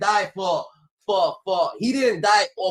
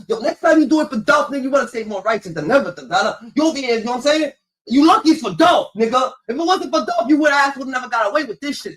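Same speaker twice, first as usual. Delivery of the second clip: loud, higher, fast scolding of a son; scolding yell; 4 semitones higher, 5 dB louder than usual. Retold or imitated. Father yelling at his son in the car, angry scolding. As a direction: rip into him for stealing.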